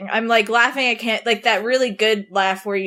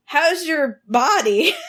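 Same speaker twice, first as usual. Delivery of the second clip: laughing; 4 semitones higher, slower than usual. Retold or imitated. Uncle's odd question, retold.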